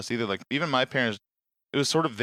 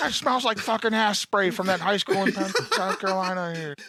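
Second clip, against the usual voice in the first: slow put-on voice, laughing through it; lightly voiced coworker, half laughing; mock voice; 7 semitones higher, slower than usual. Nurse mocking the smell in a slow put-on voice.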